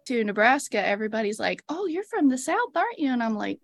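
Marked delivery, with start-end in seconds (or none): 1.7-3.1 higher-pitched mock curiosity; imitating nosy stranger. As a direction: play a stranger who has spotted the accent. Imitating nosy strangers noticing accent.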